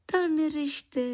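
high creature voice putting on bravado; macho bravado. A narrator's reading. Lichožrout waves away the man's worry, macho bravado. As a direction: brush it off like a tough little guy. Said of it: "odpověděl Hyhlík chlapácky".

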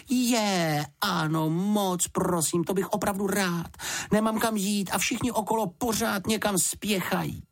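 high, eager small bear voice; a polite bear cub, thrilled to be asked; eager little bear. Acted. A little bear gladly accepting a home, high and eager.

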